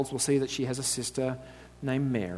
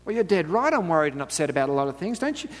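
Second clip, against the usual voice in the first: indignant retort; 5 semitones higher than usual. Acted. Martha retorting to Jesus.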